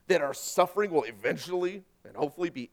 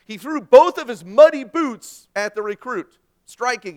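loud, dramatic storytelling; 7 semitones higher, 13 dB louder than usual. Acted. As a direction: belt out the boot-throwing moment. Dramatic climax of sermon story.

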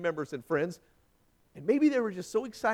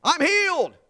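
loud, high cry of praise; joyful shout; 12 semitones higher, 10 dB louder than usual. Acted. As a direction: shout it out like a man just healed. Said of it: "came back to Jesus shouting".

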